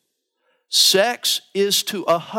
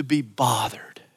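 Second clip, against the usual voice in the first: whispered; 4 semitones lower, slower than usual. Acted. Mocking a lazy wife.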